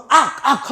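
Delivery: short, loud high-pitched yell; demonstrated battle yell. Retold or imitated. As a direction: coach showing kids how to scream. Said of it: "하면서 막 이러는 거예요". (악쓰는 시범 고함)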